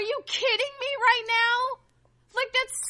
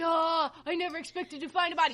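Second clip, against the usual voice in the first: mocking quote; 4 semitones lower, 5 dB quieter, faster than usual. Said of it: "he's all like".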